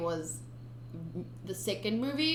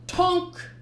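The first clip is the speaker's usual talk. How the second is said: "Tonk!" higher and louder, a bright clunk; kick noise; 9 semitones higher, 6 dB louder than usual. Shown as a demonstration. Reader trying a kick sound effect, "Tonk!". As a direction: call out "Tonk!" as the kick lands. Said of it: "I don't like that sound for a kick".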